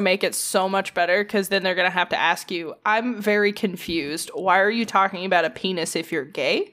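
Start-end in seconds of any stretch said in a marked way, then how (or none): 2.8-6.7 mildly acted confusion, slowing on the first words; confused. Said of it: "people get really confused".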